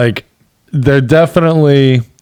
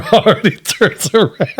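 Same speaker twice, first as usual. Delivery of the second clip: usual speaking voice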